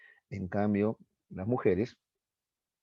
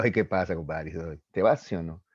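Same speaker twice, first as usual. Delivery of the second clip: dismissive buddy; 4 semitones lower than usual. Acted. Man answers his sad friend, mock dismissive. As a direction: wave off his feelings, blokey and acted.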